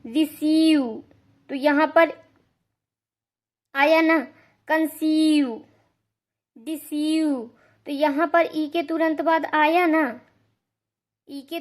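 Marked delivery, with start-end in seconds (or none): 0.0-0.8 louder, clear demo of रिसीव; example word. Shown as a demonstration. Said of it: "examples देख लेते हैं". 4.7-7.4 कंसीव and डिसीव each said apart with a long ee; example words. Shown as a demonstration. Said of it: "examples देख लेते हैं".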